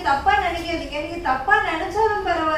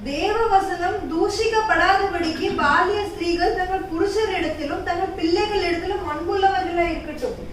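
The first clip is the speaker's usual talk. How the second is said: scripture reading. Acted. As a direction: read the verse with weight. Reciting Bible verse.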